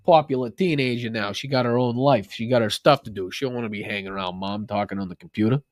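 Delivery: slipping into a New York accent. Real, not acted. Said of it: "evolved into a New York accent on that one".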